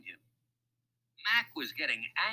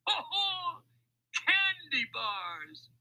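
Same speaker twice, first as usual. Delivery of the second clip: high, acted belly laugh; guffaw, then stretch the words gleefully; much slower than usual. A narrator's reading. Mac starts laughing at the thieves, guffawing. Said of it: "the laughter beginning again".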